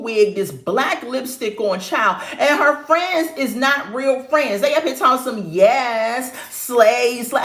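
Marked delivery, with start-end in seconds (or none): 5.5-7.4 mock hype-girl cheer; hyping up. Friends cheering on her outfit, mock hyping. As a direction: imitate friends hyping someone with drawn-out praise. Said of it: "Stop hyping her up".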